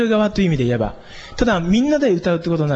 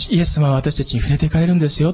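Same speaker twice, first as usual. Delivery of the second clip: speaking gently. Shown as a demonstration. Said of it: "語りかけるようにしてお話したい".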